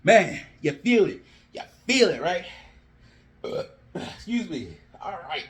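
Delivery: breathless after yelling; out of breath. Real, not acted. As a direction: talk while winded and panting. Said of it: "Let me catch my breath first".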